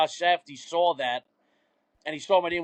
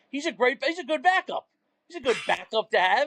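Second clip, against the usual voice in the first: pitched way up, half-laughing in mock protest; retold defensive plea; 7 semitones higher than usual. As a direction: squeak out a defence of the backup quarterback. Retold heated group chat argument.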